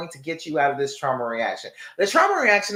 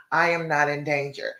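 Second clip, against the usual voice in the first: calming self-talk. Shown as a demonstration. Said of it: "You are telling your brain".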